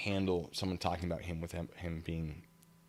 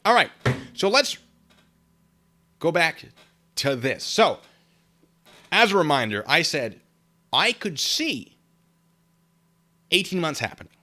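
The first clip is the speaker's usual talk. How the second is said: emphatic; 8 semitones higher, 9 dB louder than usual. Real, not acted. Emphatic rant raised.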